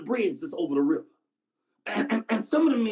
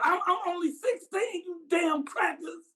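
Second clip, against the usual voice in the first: pleading scream; 5 semitones higher than usual. Acted. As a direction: beg for your life in broken phrases. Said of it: "the Negro screamed out".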